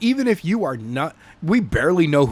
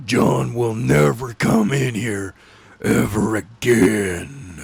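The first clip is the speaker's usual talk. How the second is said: mock solemn line; 5 semitones lower, slower than usual. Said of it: "There is no more".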